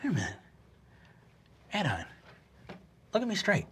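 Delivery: soft, careful questioning; quiet, probing character voice; concerned counselor. Acted. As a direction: gently check on a panicking kid. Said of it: "he goes".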